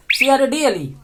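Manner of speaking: letters of cradle said one by one, each letter सी आर ए डी एल ई spoken separately; spelling out cradle. Shown as a demonstration. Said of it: "उसको cradle बोलते हैं". (अक्षर-अक्षर spelling)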